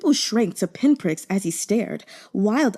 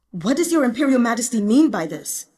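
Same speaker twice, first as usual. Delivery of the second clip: restrained anger; 4 semitones higher than usual. Acted. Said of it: "to keep his voice below a shout".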